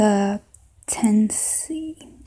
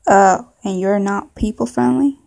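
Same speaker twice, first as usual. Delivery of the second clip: put-on southern accent; 3 dB louder than usual. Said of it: "maybe a southern accent".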